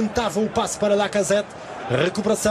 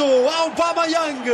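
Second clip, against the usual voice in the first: drawn-out name shout; 7 semitones higher, much slower than usual. Real, not acted. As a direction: stretch the scorer's name long and high. Drawn-out goal cry for the scorer.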